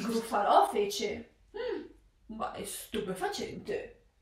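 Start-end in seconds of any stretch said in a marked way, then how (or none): 1.6-4.1 awed monster. Acted. Gruffalo amazed, low voice.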